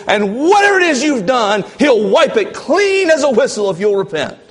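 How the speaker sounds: high, loud mimicking of a slick preacher; lightly mocking televangelist pitch. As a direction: ham up a sugary preacher promising forgiveness. Preaching climax, far higher louder.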